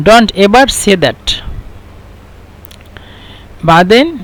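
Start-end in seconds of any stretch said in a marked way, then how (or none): 0.1-1.4 slow, careful English; slow English gloss. Shown as a demonstration. Teacher glossing the phrase slowly in English. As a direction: say it slowly so learners follow. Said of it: "يعني".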